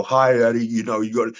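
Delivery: imitating low, slurred, effortful speech. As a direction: run the words together, low and labored. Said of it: "he would slur his words".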